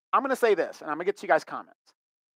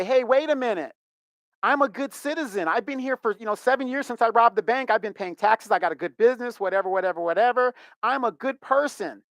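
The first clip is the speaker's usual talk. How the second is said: mock plea; 5 semitones higher than usual. Imagined bank robber pleading.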